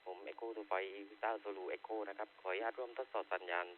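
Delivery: handheld radio transmission; like talking through a handheld radio; over walkie talkie. Real, not acted. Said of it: "ออกอากาศด้วยเครื่อง Handy".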